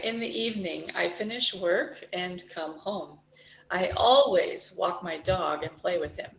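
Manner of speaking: reading with stressed key words; teacher demo of sentence stress. Shown as a demonstration. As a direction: lean on always, usually, sometimes. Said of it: "hear how loud I say words".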